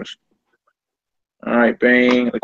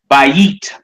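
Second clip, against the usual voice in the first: "bayit" with emphasis on the second syllable, ba-YIT; stress on YIT in bayit; 3 dB louder than usual. Shown as a demonstration. Teacher showing the accent over the yod, "bayit" stressed on YIT. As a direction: slowly lean on the "yit" of "bayit". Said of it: "Say it was over the yod".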